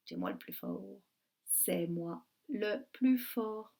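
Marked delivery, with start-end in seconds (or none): 0.1-0.8 very low growly boast as the wolf; teacher doing a deep wolf voice. Acted. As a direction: boast like the big bad wolf. Wolf voice, teacher reading title.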